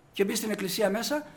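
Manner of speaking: ordinary delivery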